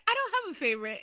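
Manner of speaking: high-pitched mock denial; high imitation of a mother's denial; imitated mother. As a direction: quote the mother in a high, put-on voice. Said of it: "she's like".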